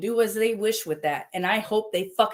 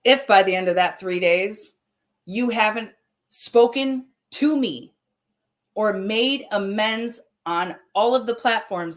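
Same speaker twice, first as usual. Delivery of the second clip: louder, slow, deliberate warning; angry threat; 4 semitones higher, 3 dB louder than usual. Real, not acted. Streamer warning her mother's accuser, angry and slow. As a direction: lay down the deadline like an ultimatum.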